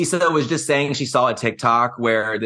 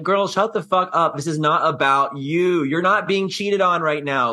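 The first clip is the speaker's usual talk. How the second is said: mock rant; 5 semitones higher than usual. Telling off Gertie, imagined rant.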